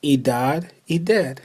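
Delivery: idad said as one run, no break; connected Turkish. Shown as a demonstration. Teacher showing learners how idad is said. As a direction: idad with the vowels merged. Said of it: "You could also say".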